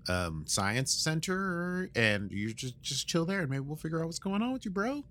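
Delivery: a chill bro telling Jack to relax; casual bro dude. Retold or imitated. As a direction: play Picard as a chill dude. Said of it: "he's like".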